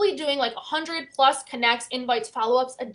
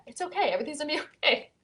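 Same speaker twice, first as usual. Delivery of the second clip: calm reassurance; 3 semitones higher, 7 dB quieter, much faster than usual. Retold or imitated. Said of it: "he's so calm".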